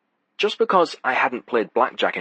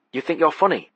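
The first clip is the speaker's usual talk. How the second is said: high, sneering thug's question; menacing challenge; 8 semitones higher than usual. A narrator's reading. Thug sneering at the card counter. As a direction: needle him as a casino heavy. Tough guy challenging narrator.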